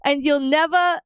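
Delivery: high, pitch-climbing furious tirade; angry Vegapunk rant. Retold or imitated. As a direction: escalate into a mad-scientist tantrum. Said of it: "angry Vegapunk would say".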